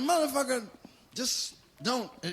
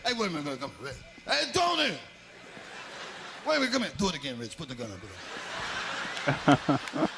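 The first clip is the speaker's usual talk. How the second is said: mobster voice. Retold or imitated. Mafia boss voiced, amused.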